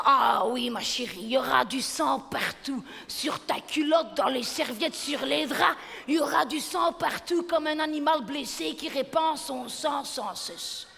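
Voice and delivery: hammed-up gory warning, building; dramatic neighbour. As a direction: neighbour relishing the horror. Voisine dramatise le sang. (voisine qui dramatise à outrance)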